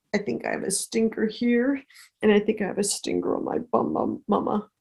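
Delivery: little bear whining to his mama; cub's voice. Acted. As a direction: play the stung cub complaining. Hurt cub telling his mama.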